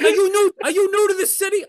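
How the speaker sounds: put-on high, loud questioning in an Asian accent; shouted imitation of a heavy Asian accent. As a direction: bark it as an incredulous Asian-accented cabbie. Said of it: "but a heavy accent".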